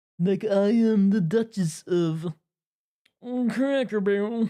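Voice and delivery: snooty, posh upper-class British accent. Speaker showing the voice they try to imitate, Family Guy rich British snob voice. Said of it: "Like the ri- the rich British snobs".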